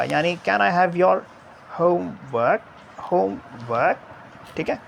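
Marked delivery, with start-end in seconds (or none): 0.5-4.0 "homework" split, lifted on "home", dropped on "work"; level "Can I have your", then "homework" up and down; rise-fall on homework. Shown as a demonstration. Teacher demonstrating Miss's question, rise then fall on "homework". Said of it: "starting में एक हमारे पास rise आएगा".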